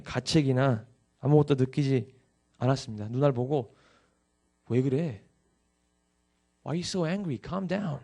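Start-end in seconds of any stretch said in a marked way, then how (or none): 4.7-8.0 soft, small-voiced retold retort; mock calming. Brother telling angry sister to calm down, mock calming. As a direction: play the brother hushing her, much softer.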